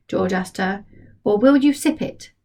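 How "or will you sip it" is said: put-on higher, curious boy voice; a boy teasing gently. George asks Grandma about her medicine, higher and curious.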